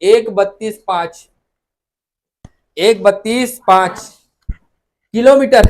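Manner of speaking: slow, spaced-out number chant; slow rote recitation for students; slow memorisation drill. Shown as a demonstration. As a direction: drill the figure slowly, one chunk at a time. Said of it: "जिसकी लंबाई याद रखना".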